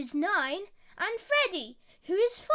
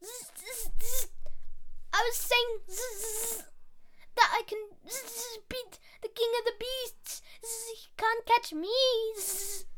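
high, boastful fly buzz; Fly boasting to Spider, high and buzzy; 4 semitones higher than usual. Acted. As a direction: brag like a silly little fly. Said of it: "a different one for Fly".

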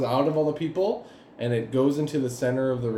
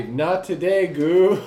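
lightly hammed-up defiance, higher and louder; mock-heroic refusal, punching the last word; defiant hero line; 4 semitones higher, 5 dB louder, much slower than usual. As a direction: say it like a plucky hero's one-liner. GM voices player's defiant line.

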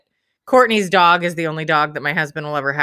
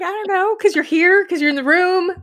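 very high, playful singsong; wife teases husband in a high playful lilt; teasing singsong; 9 semitones higher, 3 dB louder than usual. Retold or imitated. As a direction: tease him sweetly. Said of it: "I'm like".

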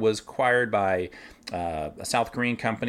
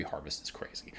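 whispered quick aside; 8 semitones lower, 14 dB quieter than usual. Real, not acted. Winemaker whispering a knowing aside to listeners. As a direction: let it drop to a fast whisper.

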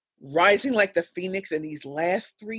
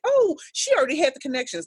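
dismissive quote; 8 semitones higher, faster than usual. Retold or imitated. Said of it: "they're like".

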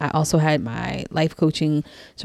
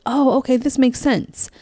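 much higher, bright aha moment; dawning realization; 9 semitones higher than usual. Retold or imitated. Recalling finding life coaching, excited high aha. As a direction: let it click, delighted.

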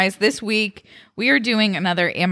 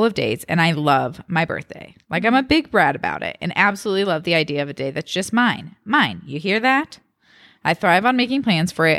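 measured podcast read-aloud; reading a post aloud. A narrator's reading. Podcast host reading a birthday Reddit post to co-host, expressive read-aloud. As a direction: read it out clearly, phrase by phrase.

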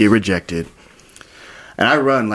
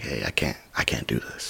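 low, hushed backing out; subdued retold confession; hesitant refusal; 8 semitones lower, 11 dB quieter than usual. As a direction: say it softly, dropping the voice.

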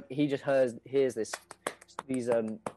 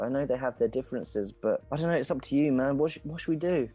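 persuaded rat friend; 4 semitones higher, faster than usual. Acted. Ratterson giving in and asking a friend about the trailer. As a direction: voice climbing gradually higher. Game master plays Ratterson.

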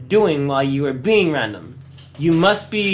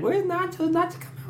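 imitating fans; 5 dB quieter than usual.

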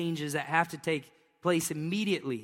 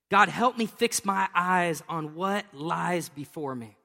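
spoken prayer; slower than usual. Shown as a demonstration. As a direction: turn the verse into a slow plea to God. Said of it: "But I'm just gonna say".

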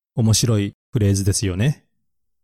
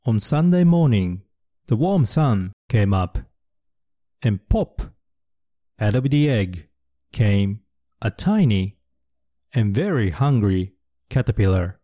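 slow, clear picture-book reading; storybook reading; slower than usual. Acted. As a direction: read it slowly to young learners. (ゆっくり絵本の読み聞かせ)

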